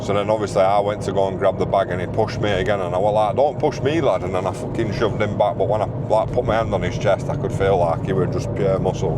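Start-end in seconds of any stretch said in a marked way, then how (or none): 3.3-4.2 retold warning. Warning the thief during scuffle.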